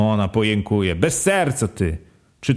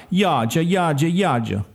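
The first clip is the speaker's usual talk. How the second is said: higher lament, the name drawn out, slow at the end; keen the child's name, higher and dragging; wife wailing the name; 6 semitones higher than usual. Acted. Grieving wife calling her dead baby, higher lament.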